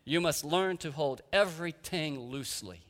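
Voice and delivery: put-on a gentle old Dutch woman's accent, taking her time. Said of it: "in her strong Dutch accent".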